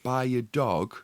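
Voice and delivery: slow, deliberate, word by word; drawn-out retort with pauses; retold incredulous retort. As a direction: spell out the absurdity in slow chunks. Retold retort, spelled out slowly.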